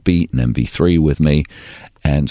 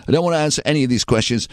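a singer; 7 semitones higher than usual. Retold or imitated. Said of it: "he goes".

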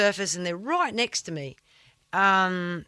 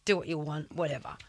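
dismissive; 3 semitones lower, 5 dB quieter than usual. Retold or imitated. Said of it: "That's literally what I just said".

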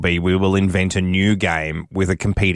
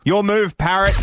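taunting; 13 semitones higher than usual. Acted. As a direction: throw down the challenge. Taunting the biscuit company.

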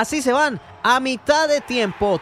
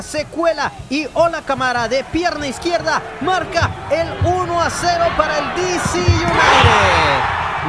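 goal call; 3 semitones higher than usual. Real, not acted. Goal scored in match recap.

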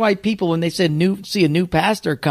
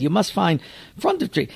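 Mister Miyagi voice; 4 semitones higher than usual. Retold or imitated. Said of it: "so we'll just call him Mister Miyagi".

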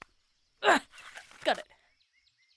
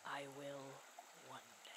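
low, much softer mock menace; mock threat; 10 semitones lower, 19 dB quieter than usual. Teasing friend threatens a push into the water, low mock menace. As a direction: murmur the threat darkly, teasing.

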